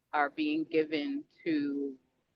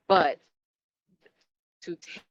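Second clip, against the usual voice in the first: breaking up space radio; 2 semitones higher than usual. Real, not acted. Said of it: "you're breaking up".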